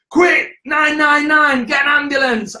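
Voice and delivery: mock panic. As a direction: play the alarmed partner calling for help. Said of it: "half expecting her to do her usual".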